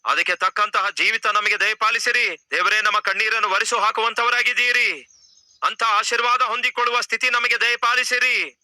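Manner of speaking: earnest pleading prayer over music; fervent prayer. Acted. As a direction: pray aloud for the congregation.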